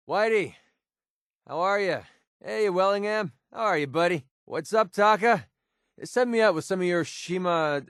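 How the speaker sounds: put-on high, hearty hellos to old pals; delighted barroom hail; jovial greeting. Greets friends at the bar.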